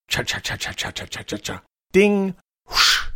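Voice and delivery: whispered cha cha, then high ding; typewriter eating sounds. Shown as a demonstration. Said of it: "you'd hear a ding and then a whoosh".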